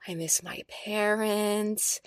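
slow, mock teary lament; a touch of tears, drawn out; lightly voiced choked-up boyfriend; imitating tearful boyfriend. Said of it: "homeboy starts crying".

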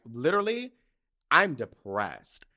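retold misery, hammed up and slowed at the end; dramatic. Teen self in mom's car declaring depression, dramatically. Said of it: "I know I sound dramatic".

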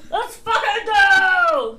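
slow, loud, high mock cheer. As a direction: cheer it out like a hyped fan. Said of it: "our state's like".

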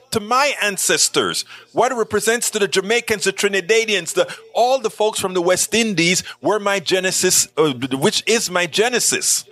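a hint of put-on indignation; irate in character. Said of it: "a little bit irate, sort of in character".

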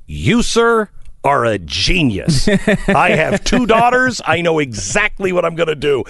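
a father lighting up with a brilliant idea; excited, booming praise; delighted dad. Retold or imitated.

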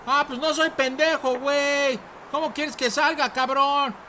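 whisper-soft plea from behind a locked door; hushed. Acted. Hiding inside, keeping voice down.

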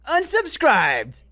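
high, loud, drawn-out yell; big hammed-up sign-off; mock outraged catchphrase. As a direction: stretch it out as a high shout. Catchphrase yelled after reading a comment.

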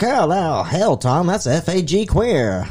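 a hammed-up tough-guy sneer; forties radio voice. Retelling a radio bit in a forties gangster voice. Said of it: "so they were talking like that".

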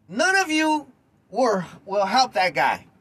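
angry. Real, not acted. Angry rant at commenters.

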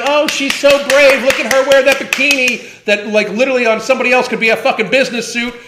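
high, loud, sugary mock admiration; mock gushing praise. Ranting about fans, mockingly gushing over her bravery. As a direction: gush over her like a fan, then rush the rest.

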